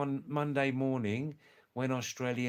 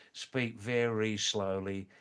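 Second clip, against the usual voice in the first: slow speech; 3 semitones lower, slower than usual. Shown as a demonstration. Shows slow Australian speech while describing it.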